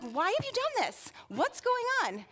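high, sharp demand from a furious Pharaoh; king confronting the midwives, demanding. Acted. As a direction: bark the question at the midwives. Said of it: "He demanded".

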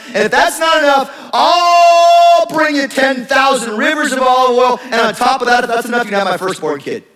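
put-on sassy teen upping the bid each time; sarcastic teenager. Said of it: "like a sarcastic teenager".

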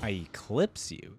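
a light imitation of the champion's boast; mimicking the voice line. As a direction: repeat it slowly, trying the boast on for size. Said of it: "That's an interesting one".

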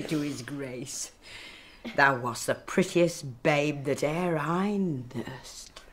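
put-on fond and hushed, to the girl; whispered fondness for her nursling; tender whisper. Nurse tender toward Juliet.

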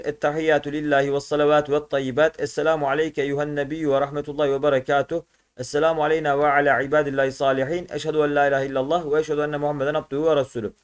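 steady chanted recitation of the Tahiyyat prayer. Acted. Teacher reciting the Tahiyyat for pupils, in a steady recitation tone.

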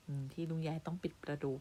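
usual speaking voice

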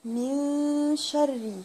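very slow drawn-out من شر; slow chanted model; slow recitation. Shown as a demonstration. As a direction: stretch each syllable like recitation.

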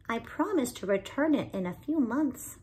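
a hint of a small bird's eager voice; young bird Binkle. Binkle promises Maybelle to return it, lightly pleading. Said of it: "he asked".

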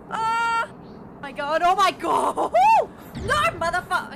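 shrieking in frustration; raging gamer. Real, not acted. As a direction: yell at the game in disbelief. Raging at a hard game.

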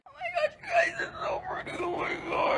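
high, breathless squeal breaking into a whisper; overjoyed shriek fading to a breathy whisper; excited squeal. Real, not acted. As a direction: squeal with real delight, half crying. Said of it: "I don't know what that was".

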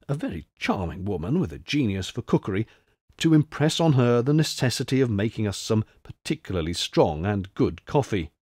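a hint of hushed, earnest counsel; confidential advice. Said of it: "in mysteriously confidential tones".

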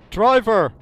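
mock scolding. Scolds game ambulance driver.

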